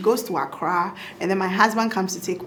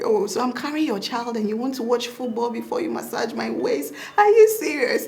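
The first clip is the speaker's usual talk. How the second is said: mock outrage; 4 semitones higher than usual. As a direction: play the offended pregnant wife. Wife acting out pregnant complaints.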